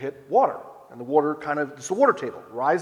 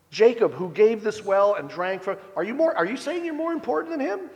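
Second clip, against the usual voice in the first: rising, faster, incredulous jabs; mocking challenge; 4 semitones higher than usual. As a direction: needle him, half mocking, climbing up. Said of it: "responds to him again sarcastically".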